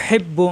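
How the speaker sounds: হেব্বু with the হ squeezed in the throat; pressed ha. Shown as a demonstration. Teacher shows students a throat-pressed হ in হেব্বু. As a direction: push from mid-throat to begin হেব্বু. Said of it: "হায় চাপ দিয়ে".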